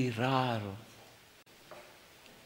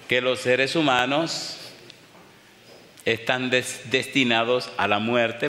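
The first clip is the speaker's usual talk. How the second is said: louder, measured preaching voice; 3 dB louder than usual. Acted. Preacher calls listeners to the altar, earnest preaching.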